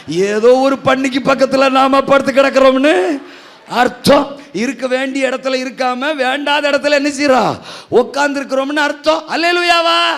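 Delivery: loud, high fiery preaching; preaching at full force. Acted. Pastor hammers the lesson to the congregation, loud fiery preaching. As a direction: drive the point home to the church.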